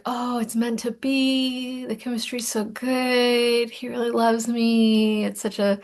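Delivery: mock swooning, slow and dreamy; lightly hammed-up lovestruck gushing; dreamy infatuated mind. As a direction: gush like a lovestruck romantic. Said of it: "your mind is like".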